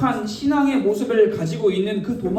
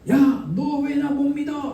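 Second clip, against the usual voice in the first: higher-pitched, mildly acted telling-off; mock scolding; 4 semitones higher than usual. Jesus hypothetically confronting Thomas, mock scolding. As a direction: demand it as a light mock rebuke. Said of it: "뭐라고 하시는 게 아니라".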